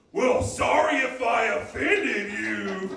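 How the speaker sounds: loud, drawn-out whiny sarcasm; whiny mock apology. Whiny white dude answers being corrected, sarcastic shouted apology. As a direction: shout a slow, insincere apology. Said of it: "like, really whiny now".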